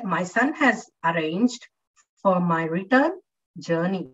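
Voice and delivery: "return" said with "turn" stressed, slow. Shown as a demonstration. Teacher models sentence stress for students. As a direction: read slowly, leaning on "turn" in "return". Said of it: "stressing more on turn".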